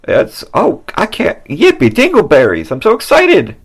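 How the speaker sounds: giddy, high-pitched and loud; bursting with glee over a costume; squealing with joy; excited. Acted. Excited about his costume.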